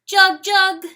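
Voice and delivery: high, loud wailing bird cry, far off; desperate distant bird cry; crying bird call. A narrator's reading. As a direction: call out like a lonely nightingale. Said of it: "she cries from the rim".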